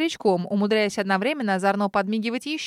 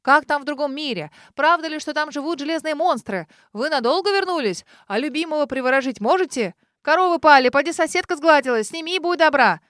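higher, louder clamour of eager voices; crowd clamour; 4 semitones higher, 6 dB louder than usual. A narrator's reading. Townsfolk crowding the returned witches, loud clamour. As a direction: pelt the witches with questions.

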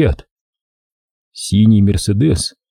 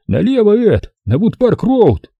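high urgent lisp; lisping whistling voice; 11 semitones higher than usual. Acted. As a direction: call directions in a high lisp. Tommy directs the chase.

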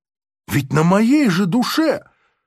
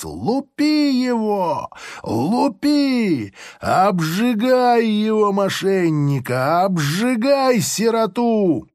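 high, slow bellowed commands; gleeful shouting; 5 semitones higher, slower than usual. Acted. Officer urging soldiers to beat harder, high slow bellow. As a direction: egg the soldiers on, relishing it.

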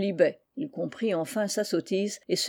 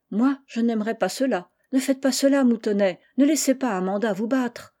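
put-on higher, earnest girl's plea; lightly voiced girl begging him; young girl pleading; 4 semitones higher, 3 dB louder than usual. Anne pleads with Moutonnet. (jeune fille qui supplie, voix plus aiguë)

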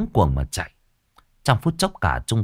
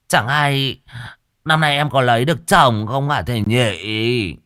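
coy effeminate man; 2 semitones higher than usual. Acted. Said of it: "Câu hỏi óng ẹo".

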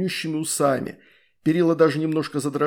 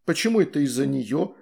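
usual speaking voice

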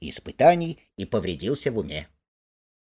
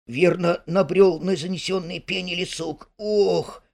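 higher, pained groaning words; mild moan of pain; 7 semitones higher than usual. Acted. Mole moaning to Rat over his cut leg. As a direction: moan through the hurt. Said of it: "простонал Крот".

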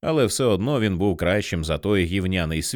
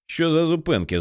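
higher, raised complaint; yelling; 6 semitones higher than usual. A narrator's reading. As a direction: holler over the trucks. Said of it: "заволав він".

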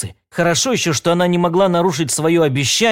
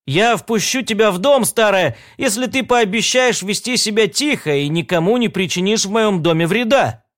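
raised, higher voice calling through the door; 6 semitones higher than usual. Acted. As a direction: call out firmly to someone outside. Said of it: "Финлай крикнул ей".

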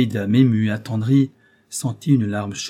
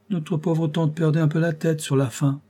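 haughty countess; 6 semitones higher than usual. Acted. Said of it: "fit même dire à la comtesse".

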